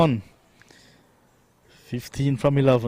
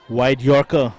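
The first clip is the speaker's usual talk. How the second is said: sudden loud call of the ball; excited call; 5 dB louder, slower than usual. Real, not acted. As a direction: shout the delivery as it lands. Live call of a delivery.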